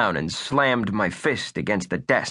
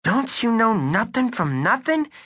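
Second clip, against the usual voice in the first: put-on hard-boiled kid sleuth, higher voice; wisecracking boy detective voice; tough kid detective; 12 semitones higher than usual. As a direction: play it like a pint-sized noir detective.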